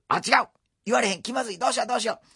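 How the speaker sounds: high, loud panicked babble; panicked inner voice. Retold or imitated. Apprentice panicking over the wrong sweet. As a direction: spiral into silent panic.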